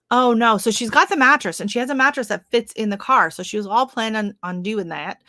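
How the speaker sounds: slipping into a Southern US accent; lightly Southern, animated chat. Real, not acted. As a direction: let a Southern twang creep in. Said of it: "my accent got all Southern".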